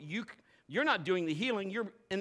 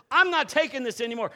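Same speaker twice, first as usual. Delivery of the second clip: defiant declaration; 5 semitones higher, 7 dB louder than usual. Retold or imitated. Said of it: "like a Shammah that says".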